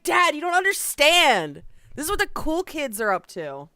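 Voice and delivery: loud, high mock protest to a parent; protesting kid. Kid telling dad he doesn't understand, mock outrage. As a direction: wail it like a misunderstood child, hammed-up. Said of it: "just be like".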